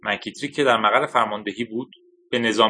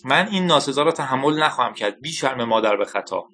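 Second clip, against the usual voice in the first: lightly voiced insulted outburst, pitched up; angry shout; 2 semitones higher than usual. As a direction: snap back, hurt and offended, in mild form. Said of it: "با فریاد گفت".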